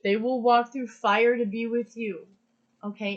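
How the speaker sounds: getting emotional. Real, not acted. Reader tells listener, getting emotional, voice swelling. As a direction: let the emotion rise into the words. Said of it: "and I'm getting emotional".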